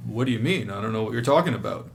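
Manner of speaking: fast, snide what-do-you-mean; mock-innocent but biting; sarcastic, aggressive tone. Shown as a demonstration. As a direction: sound dismissive and edgy. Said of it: "in the inflection of the voice that I'm about to say".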